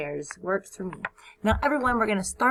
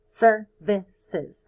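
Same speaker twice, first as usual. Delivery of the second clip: "Services" said louder with its three syllables clear; syllables stressed; 6 dB louder than usual. Shown as a demonstration. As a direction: model it louder for kids to copy. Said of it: "Three syllables".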